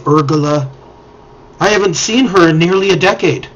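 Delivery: lightly voiced eccentric mage, longing; mildly wistful old mage. Mage tells the adventurers about her wife, wistful.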